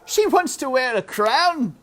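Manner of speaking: loud jeering; loud scornful uncle; Uncle mocking. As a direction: scoff it like a rough man. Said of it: "He laughed harder".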